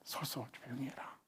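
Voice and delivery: hushed whisper; whispered be still. Shown as a demonstration. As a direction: breathe the words out softly. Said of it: "Stand still".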